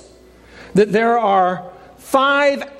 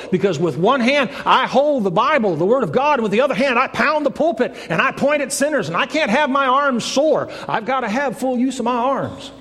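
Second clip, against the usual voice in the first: higher-pitched, insistent protest; protesting evangelist; 6 semitones higher than usual. Acted. Evangelist refusing the doctor's shot in the arm, insistent protest. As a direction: plead your case in rising preacher's cadence.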